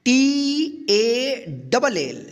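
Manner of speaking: letters spelled out slowly one by one; drawn-out letter-by-letter spelling. Shown as a demonstration. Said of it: "उस ए का औ उच्चारण होगा".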